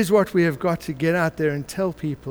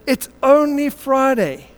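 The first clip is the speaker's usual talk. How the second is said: rising preach; 7 semitones higher, 4 dB louder, slower than usual. Acted. Preaching climax.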